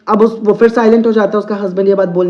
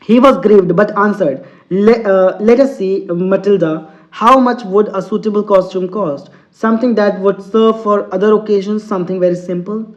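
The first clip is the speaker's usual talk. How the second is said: slow, deliberate English reading; teacher reading a story to students, very slow; slow read-aloud; much slower than usual. Acted. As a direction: read each word out slowly for the class. Teacher reads story text aloud.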